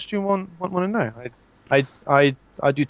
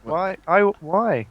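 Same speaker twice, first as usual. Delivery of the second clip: higher, drawn-out Geordie; Geordie accent; 5 semitones higher, 4 dB louder, slower than usual. Acted. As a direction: put on a slow Geordie lilt. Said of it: "they don't like Geordie".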